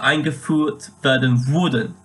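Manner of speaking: German phrase leaning on "wurden" as "würden"; emphasis on U umlaut. Shown as a demonstration. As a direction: stress the umlaut vowel in "wurden". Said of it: "I put emphasis on the U umlaut".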